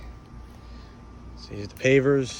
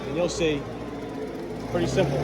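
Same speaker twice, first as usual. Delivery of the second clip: yelling over leaf blower. Real, not acted. Sorry about the blower.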